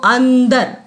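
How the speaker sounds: "अंदर" with the dot sounded as a clear n; nasal sound as न. Shown as a demonstration. Teacher shows the anusvar rule, clear n in "अंदर". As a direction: say "अंदर" as an-dar, holding the n. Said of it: "पंचम वर्ण का ही उच्चारण होता है".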